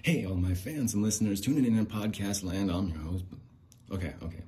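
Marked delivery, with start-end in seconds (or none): 0.0-3.2 big, loud show-opener greeting; podcast host voice. Pretend. Performing the lines for the viral video, loud podcast host voice. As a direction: belt it out like a hammy host. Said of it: "Let me warm up a little bit".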